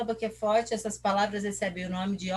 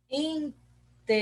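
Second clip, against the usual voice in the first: "Interesse" slowly split, with RE raised; stress on RE; 6 semitones higher, slower than usual. Shown as a demonstration. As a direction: break off "In", then lean on RE in "Interesse". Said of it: "Quem que é forte?".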